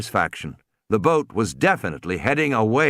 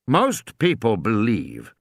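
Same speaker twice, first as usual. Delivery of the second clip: stiffly; slower than usual. Acted. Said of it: "Hammond said stiffly".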